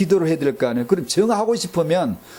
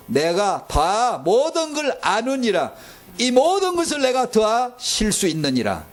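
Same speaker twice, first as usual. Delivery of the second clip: voice of God; 3 semitones higher, slower than usual. Acted. God's answer, acted out.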